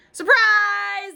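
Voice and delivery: high, loud shout; hollered surprise. A narrator's reading. Classmates shouting surprise at Junie, high and loud. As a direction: jump out yelling. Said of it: "they hollered".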